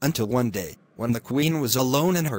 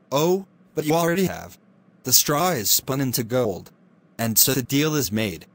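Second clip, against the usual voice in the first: sly imp. Acted. Imp gloats over trapped girl.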